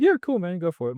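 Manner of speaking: high, loud, careless yeah, then easy; mock-casual shrug of a reply; breezy brush-off. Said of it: "I'd be like".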